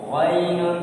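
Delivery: "गैनुन" with a heavy, rounded first sound; thick letter. Shown as a demonstration. Teacher showing ghain is read thick, heavy "गैनुन". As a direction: make "गैनुन" thick at the start. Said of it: "ये मोटा पड़ा जाएगा".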